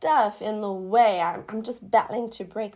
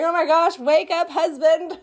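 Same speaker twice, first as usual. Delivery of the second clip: impatient excitement; 6 semitones higher, 6 dB louder than usual. Retold or imitated. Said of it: "sitting with this testimony the whole day going".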